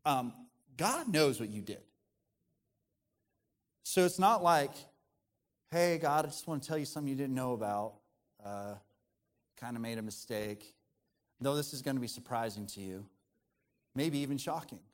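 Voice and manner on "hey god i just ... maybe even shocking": mock sheepish confession. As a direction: break awkward news gingerly, with pauses. Acting out a sheepish confession to God.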